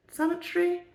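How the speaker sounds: sanitary asked with a high rising doubt; sanitary tried out as a question. Shown as a demonstration. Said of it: "Probably the word I want".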